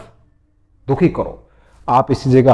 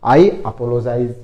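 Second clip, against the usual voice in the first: slow model phrase; 2 semitones lower, much slower than usual. Shown as a demonstration. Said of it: "माफ़ी मांगना".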